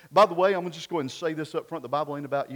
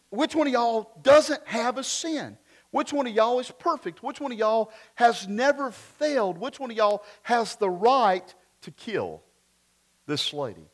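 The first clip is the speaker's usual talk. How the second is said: put-on preacherly Southern-accented questioning; Jesus with Southern accent; 5 semitones higher, 3 dB louder than usual. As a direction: challenge the crowd in a Southern accent, dropping at the end. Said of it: "I always think of Jesus having a southern accent".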